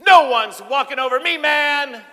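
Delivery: loud, high, combative yell; aggressive shout. Shown as a demonstration. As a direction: snap it out like a bully. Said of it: "That's aggressive".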